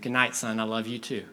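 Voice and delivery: lightly voiced father, low pitch; understated tender goodnight to a son; loving dad. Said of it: "He said".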